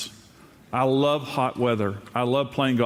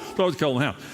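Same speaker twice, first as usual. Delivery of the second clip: imitating guests whining it's cold; high whine about the cold; mock whiny complaint; 5 semitones higher, much faster than usual. Guests complaining about the cold house, mock whine. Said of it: "my voice goes up".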